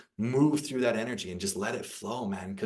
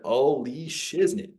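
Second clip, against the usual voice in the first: slow, raised mock astonishment; drawn-out, higher acted amazement; stunned reaction; 4 semitones higher, 4 dB louder, much slower than usual. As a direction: draw it out as if floored.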